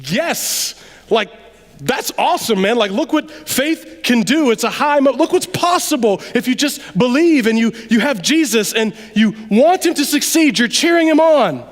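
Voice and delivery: lightly hammed-up cheering-on, rising in energy; proud excitement. Fan cheering Peter on as he walks, proud excitement. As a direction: build into proud, animated rooting. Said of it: "the other is a proud excitement".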